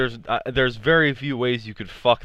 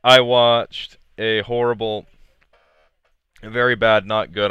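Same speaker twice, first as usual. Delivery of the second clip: choking on a kernel; talking while choking on popcorn; 4 dB louder than usual. Real, not acted. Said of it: "I'm choking".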